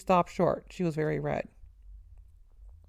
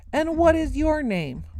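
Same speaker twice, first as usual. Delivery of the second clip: much higher and louder, slow; slow furious bellow; 9 semitones higher, 7 dB louder, slower than usual. A narrator's reading. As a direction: bellow it in outrage.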